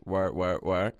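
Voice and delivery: drawn-out "work" as the new song pronounces it; song-style pronunciation. Shown as a demonstration. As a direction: say "work" slowly, each repeat on its own. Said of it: "is now pronounced".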